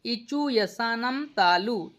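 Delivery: slowed, deliberate chanting of the rule; slow sutra recitation. Shown as a demonstration. Teacher to class, slowly reciting the sutra. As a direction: lay out each syllable slowly. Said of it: "उसके बाद चु मतलब होता है".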